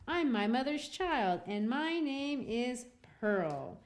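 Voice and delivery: put-on a child answering the elders primly; little girl Pearl.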